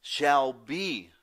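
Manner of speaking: lightly voiced divine command; voicing Jesus. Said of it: "if Jesus were to say it to us, it would say".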